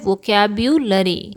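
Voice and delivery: teacher gives the right form of वोकैब्युलरी; correct pronunciation. Shown as a demonstration. Teacher to learners, clear correct pronunciation. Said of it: "इसका सही pronunciation क्या है?".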